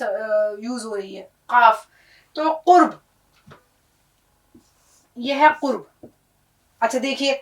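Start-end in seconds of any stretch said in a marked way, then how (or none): 1.5-1.9 قاف with q from the back of the throat; throat sound. Shown as a demonstration. Teacher demonstrating the big qaf, قاف with throaty q. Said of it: "حلق کی آواز".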